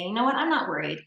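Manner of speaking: building resolve. Retold or imitated. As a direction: talk yourself up until it lifts. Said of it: "I'm gonna say something different".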